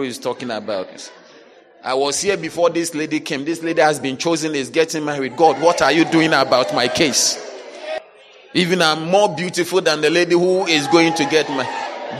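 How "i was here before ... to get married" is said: a complaining woman, rising to a loud shout; hammed-up whining grievance, louder and louder; jealous complainer. Preacher voices a jealous complainer.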